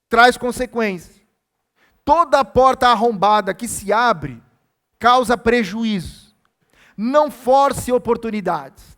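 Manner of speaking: slow, forceful pulpit warning; weighty, drawn-out preacher's delivery; emphatic preaching. Real, not acted. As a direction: hammer each phrase home to the congregation.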